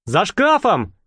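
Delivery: mild joyful call; joyful announcement. Acted. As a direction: announce it with delight. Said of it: "радостно объявил Болт".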